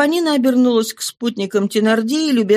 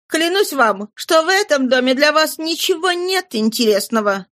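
put-on higher young girl's voice; pleading girl, higher; 4 semitones higher than usual. Éponine tries to talk the gang out of it, higher and pleading. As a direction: coax the bandits in a lighter, higher voice.

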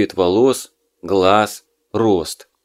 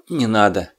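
tired. Acted. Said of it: "устало прикрыл глаза".

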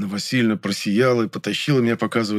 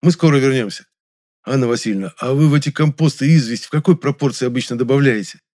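loud; 5 semitones higher, 6 dB louder than usual. Acted. Keeps up the act.

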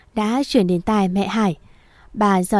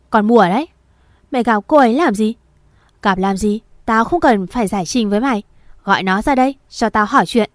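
sharp mother; 3 dB louder, faster than usual. Acted. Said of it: "cái giọng chua ngoa của bà".

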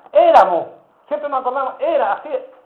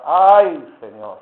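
un "Ay" agudo y fuerte que se apaga en "Señor"; lamento quejumbroso; 3 semitones lower, 11 dB louder, much slower than usual. Retold or imitated. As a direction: imita a Moisés quejándose con un gran ay. Moisés quejándose ante Dios. (Moisés se queja ante Dios, ay lastimero y exagerado)

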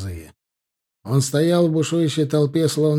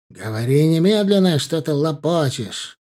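impatient shout; 3 semitones higher, 3 dB louder than usual. Acted. Brother yelling at witness.

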